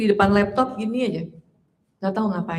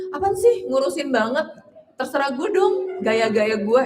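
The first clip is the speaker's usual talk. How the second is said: peeved comeback, pitched up; defensive retort; 2 semitones higher than usual. Pretend. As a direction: brush off the advice indignantly. Touchy reply to a friendly remark. (jawaban sewot dengan nada naik)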